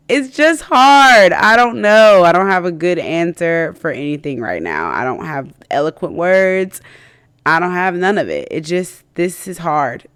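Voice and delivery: fighting back tears, slowed down; getting emotional. Real, not acted. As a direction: voice breaking up, real emotion. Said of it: "I'm getting emotional".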